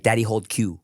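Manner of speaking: a hint of a little girl getting the words wrong; toddler grammar. A father mimicking his toddler's broken grammar, lightly voiced. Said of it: "instead of, like".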